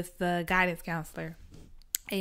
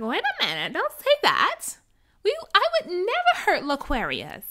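higher, louder defensive voice; panicked protest; 10 semitones higher, 4 dB louder than usual. Retold or imitated. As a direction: leap in alarmed and shrill-pitched. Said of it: "the guy's gonna like".

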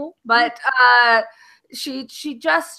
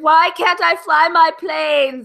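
whiny prince; 5 semitones higher, 7 dB louder, slower than usual. Retold or imitated. Voicing Matt Smith's whiny prince.

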